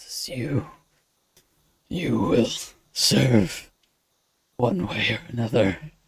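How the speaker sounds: faint, raspy, strained character voice. The Lord of Eyes addresses the players, faint raspy strained voice. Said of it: "it's faint and almost raspy, like it's strained".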